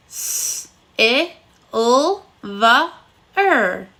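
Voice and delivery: silver split into separate sounds, S hissed unvoiced; sounding out phonemes. Shown as a demonstration. Teacher sounding out "silver" phoneme by phoneme with the class. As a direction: segment "silver" one sound at a time. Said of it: "Let's sound it out together".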